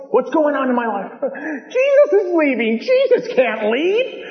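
panicked disciples. Retold or imitated. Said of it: "And they're freaking out".

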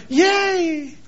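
high, bright ironic yay; sarcastic cheering; mock cheer. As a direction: ironic celebration, high and quick.

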